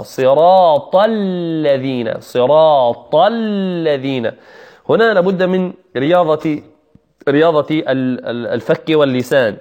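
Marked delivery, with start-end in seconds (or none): 0.0-4.3 صراط الذين slowly, heavy ط straight into a long thin ل; heavy taa, light laam. Shown as a demonstration. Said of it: "بعد الطاء يوجد اللام المرققة". (نطق صراط الذين بطاء مفخمة ولام مرققة)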